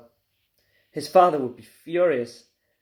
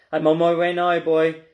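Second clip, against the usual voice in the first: calling down; 5 dB louder than usual. Acted. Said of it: "she called down".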